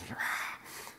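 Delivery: breathy, soft bear roar; half-hearted mock bear growl; bear impression. Speaker acting out a grizzly bear appearing in the story, breathy mock roar. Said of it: "That was my bear impression".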